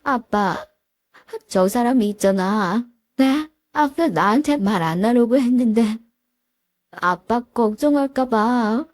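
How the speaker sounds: a daughter sobbing out the truth to her father; crying confession. Retold or imitated. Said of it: "엉엉 울면서".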